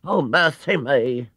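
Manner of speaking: alarmed cry. A narrator's reading. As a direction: cry out in fright. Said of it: "cried Missus Bird".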